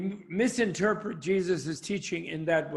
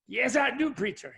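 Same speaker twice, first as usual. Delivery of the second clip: put-on higher-pitched Southern boy, dropping on the last word; eager little boy; 7 semitones higher than usual. Little boy answering the preacher in church, eager Southern voice. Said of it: "one little boy in the front row".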